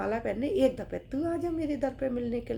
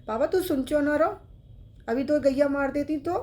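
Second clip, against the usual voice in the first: put-on child's scolding; 4 semitones higher, 6 dB louder than usual. Boy scolds old man.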